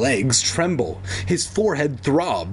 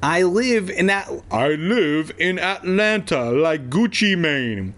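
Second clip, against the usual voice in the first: shouting down; 5 semitones higher than usual. A narrator's reading. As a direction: call it down to someone below. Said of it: "he shouted down to the officer".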